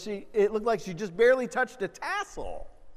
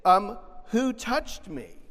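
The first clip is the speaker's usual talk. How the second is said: incredulous disciples; 5 semitones higher, 5 dB louder than usual. Retold or imitated. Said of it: "They're like".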